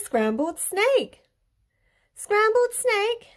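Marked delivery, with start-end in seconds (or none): 2.1-3.3 slow, high-pitched startled question; shocked echo. A narrator's reading. Snake learns he is the favourite food, shocked. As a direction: squeal it back in drawn-out disbelief.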